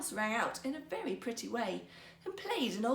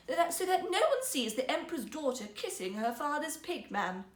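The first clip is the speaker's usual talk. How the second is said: princess voice; 3 semitones higher, 4 dB louder than usual. Acted. Princess voice, relenting.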